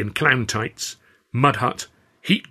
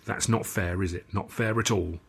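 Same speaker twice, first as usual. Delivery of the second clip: mild scolding; 6 dB quieter than usual. Acted. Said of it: "Alf scolded".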